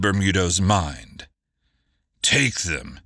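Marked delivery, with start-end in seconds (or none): 2.2-3.0 clipped order to his men; a firm, final command. Acted. Captain giving in, ordering the arrest firmly. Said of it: "he commanded".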